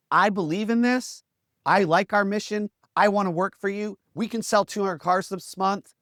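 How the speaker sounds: keen team member. Retold or imitated. Employees pledging belief to a leader, imitated keenness. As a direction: rattle off upbeat pledges. Voicing keen but shallow staff.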